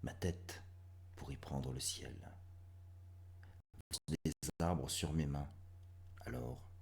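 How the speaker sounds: short phrases set apart by pauses; hushed, halting verse with sudden swells; dramatic poem recitation. Acted. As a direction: recite intensely, swelling then sinking to near-whisper. Reads last poem.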